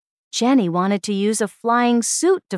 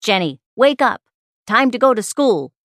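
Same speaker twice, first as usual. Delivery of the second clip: strange loud voice; 3 semitones higher, 5 dB louder than usual. Acted. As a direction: boom the wake-up call like a strange voice. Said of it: "a strange voice said".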